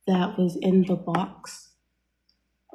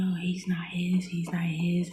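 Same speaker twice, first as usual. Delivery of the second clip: gossiping whisper; 5 dB quieter than usual. Retold or imitated. Gossip people are saying.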